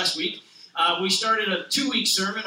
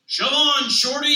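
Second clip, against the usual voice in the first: a hint of a bossy bus shouting; rude bus; 6 semitones higher, 7 dB louder than usual. Double-decker bus yelling at Little Blue, a touch brash. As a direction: push him aside, brash.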